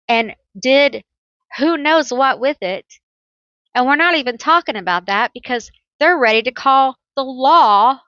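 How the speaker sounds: acted exasperation mounting line by line; indignant rant. Voicing the client's grievance.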